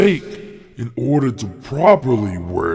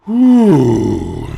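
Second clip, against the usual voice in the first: loud falling whoo; whoop; 10 dB louder than usual. Acted. Muscle-bound fighter facing his opponents, loud whoop. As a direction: let out a loud, swooping whoo.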